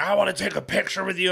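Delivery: high-pitched drunk impression; wasted guy. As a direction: mimic a drunk asking a favor. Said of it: "he's wasted".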